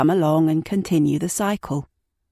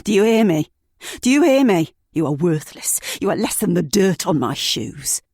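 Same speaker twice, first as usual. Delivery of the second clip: furious yelling. Acted. Abusive boyfriend yelling while beating her, furious. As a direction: shout him down in rage.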